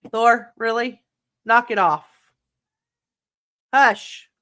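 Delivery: loud sharp scolding of a pet; scolding the cat. Real, not acted. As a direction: yell at the cat to stop. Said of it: "I had to scream at my cat".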